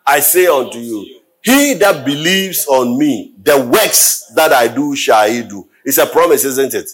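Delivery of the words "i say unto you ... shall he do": congregation reciting the verse; reading aloud together. Shown as a demonstration. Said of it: "can we all say it together".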